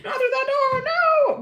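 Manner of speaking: high panicked shrieks at the screen; terrified movie viewer. Retold or imitated. A scared movie viewer shrieking at the screen in terror. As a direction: scream at the door in the film like it's real. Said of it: "They're like".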